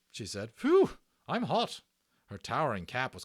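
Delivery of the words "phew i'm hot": high, slow, loud phew; puffing hot Matron. Acted. Matron overheated after the operation, slow high puff. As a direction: blow out the heat like a tired nurse.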